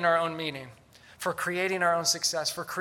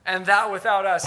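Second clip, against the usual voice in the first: loud, drawn-out sarcastic proclamation; mock their success with booming false admiration; 3 semitones higher, 10 dB louder, slower than usual. Paul to the self-satisfied Corinthians, loudly sarcastic. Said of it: "Do you hear the sarcasm?".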